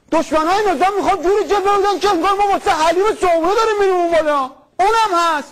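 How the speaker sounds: fast, high, hammed-up zeal; high fast mock fervor; mock zealous rant. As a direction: rattle it off like a fired-up zealot. Mock Basij interviewee ranting fast.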